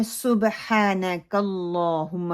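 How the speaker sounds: سبحانک اللہم slow, with short u and heavy l; measured model of سبحانک اللہم; slow correct recitation. Shown as a demonstration. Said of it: "جب ہم ثنا شروع کرتے ہیں".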